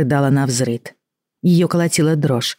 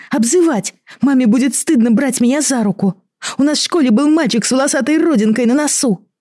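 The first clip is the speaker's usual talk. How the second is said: much higher, desperate outpouring; distraught; 10 semitones higher than usual. Acted. Horned girl refusing to go home, much higher and desperate. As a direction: plead in rising panic.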